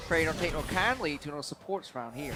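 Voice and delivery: folksy American country twang; lightly hammed-up Southern accent; mock Southern accent. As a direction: joke in a put-on Southern US accent. Mock folksy speech, praised, likened to accents.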